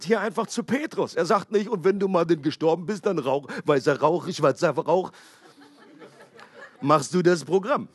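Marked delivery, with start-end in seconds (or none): 1.7-7.9 mocking, laughing. Mock papal succession instructions.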